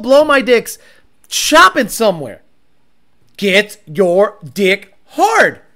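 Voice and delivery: loud and emphatic crude hype; hyped up. Real, not acted. Hyping a built car to viewers, loud crude hype. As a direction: punch it out loud.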